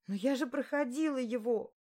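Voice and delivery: high, quick protest; blurted out. Acted. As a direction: blurt it before you can stop. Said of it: "выпалила я".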